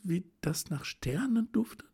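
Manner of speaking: rapturous exclamation. A narrator's reading. Helene at the open window to Aldekas, rapturous high cry. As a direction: breathe in and cry out to the stars. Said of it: "atmete tief und rief".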